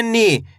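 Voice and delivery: "नी" with a long, falling ee. Shown as a demonstration. Teacher turns na into nee, drawn-out "नी". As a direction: draw out the vowel in "नी". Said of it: "खींच के पढ़ा जाता है".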